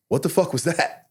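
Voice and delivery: high, baffled outburst; retold shock. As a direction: pitch jumps up in retold disbelief. Stunned by own sudden rage.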